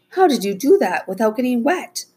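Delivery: high-pitched, astonished question; amazed mom. Acted. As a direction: ask in amazement, voice lifted high. Astonished mother questions the kids.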